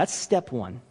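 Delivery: ordinary talk, nothing marked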